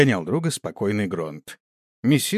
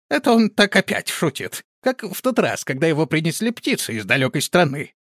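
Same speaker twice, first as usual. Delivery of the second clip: shocked disbelief; 7 semitones higher than usual. A narrator's reading. Stunned disbelieving protest.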